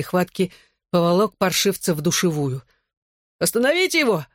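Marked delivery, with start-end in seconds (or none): 3.4-4.3 high, urgent demand for help; bully screaming at the team to intervene. A narrator's reading. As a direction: shout it up high in panic. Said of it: "потребовал Ронан".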